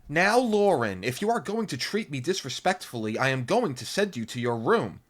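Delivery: high, loud mom warning; a mother threatening to send her to her room; stern mom voice. A narrator's reading. Mother scolds.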